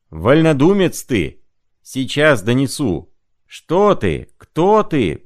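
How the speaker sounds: high, loud scolding; drunken berating. Acted. Zimoveykin scolding Senka as a freethinker, high and loud. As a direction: hammer him with accusations, pitch high.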